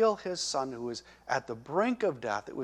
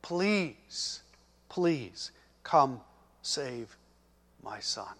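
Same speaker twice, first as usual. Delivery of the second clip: pleading; much slower than usual. Acted. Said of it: "He was pleading".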